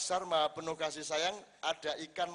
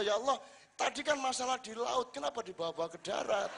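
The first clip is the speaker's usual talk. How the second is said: laughing protest to God; 7 semitones higher, 3 dB louder than usual. Acted. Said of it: "dia bilang gini sama Allah".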